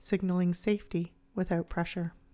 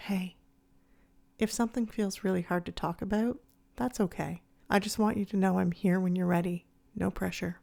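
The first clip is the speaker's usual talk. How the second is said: softened. Acted. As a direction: invite the partner in, no pressure. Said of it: "and soften".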